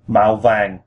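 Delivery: màu vàng stepping gently downward; falling tone. Shown as a demonstration. Teaching learners yellow, màu vàng in falling tones. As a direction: let both màu and vàng fall. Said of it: "with a falling tone".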